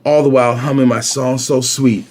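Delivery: lively picture-book read-aloud; story narration. A narrator's reading. Reader telling a boy's morning routine, story narration. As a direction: read it clearly for young children.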